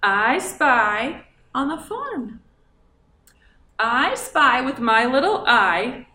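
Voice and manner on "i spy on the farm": put-on slow clear title reading for the children. Shown as a demonstration. Teacher reads the book title slowly to young listeners. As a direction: read "I spy on the farm" slowly, leaning on farm. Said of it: "That's our letter of the day".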